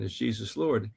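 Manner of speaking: softly asked, a gentle interruption; gentle question. Retold or imitated. Asking the atheist professor gently, quietly. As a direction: ease in with a soft, careful question. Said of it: "tried to gently interrupt him".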